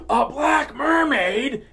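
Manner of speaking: high, slow, loud mock outrage; exaggerated high mocking whine; mocking outraged kid. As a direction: drag it out like a whiny kid. Mocking TikTok kid getting mad.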